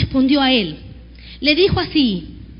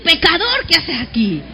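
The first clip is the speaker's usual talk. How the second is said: louder mock scorn. Shown as a demonstration. Congregation repeating the taunt to a neighbor, louder scorn. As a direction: repeat it with more scornful force. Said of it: "Vuélvaselo a decir".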